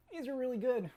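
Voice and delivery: talking through a mouthful of meatball; words round a bite of food; mouth full. Real, not acted. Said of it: "so I talk with my mouth full".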